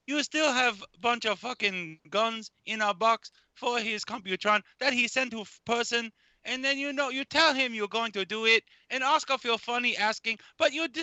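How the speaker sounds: a lightly put-on character voice for the whole rant; a hint of a goofy character voice, ranting at a friend. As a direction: stay in the silly put-on voice. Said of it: "I'm going to do this voice every moment".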